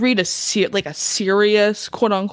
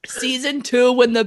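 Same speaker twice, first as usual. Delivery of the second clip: laughing; 5 semitones higher than usual. Real, not acted. Laughing while talking.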